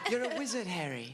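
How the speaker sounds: hammed-up British accent, starting high. Shown as a demonstration. Band member quotes Harry Potter for laughs, hammed-up British accent. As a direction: put on a playful British film-quote voice. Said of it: "Who can do a British accent?".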